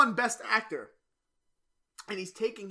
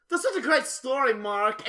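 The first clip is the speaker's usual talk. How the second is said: imitating Tommy; 6 semitones higher, 8 dB louder, slower than usual. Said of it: "He goes".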